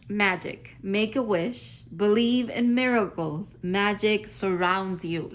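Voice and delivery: loud, slow proclamation; emphatic card reading. Real, not acted. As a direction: read the card out with weight, word by word. Reads the card's message aloud, thrilled.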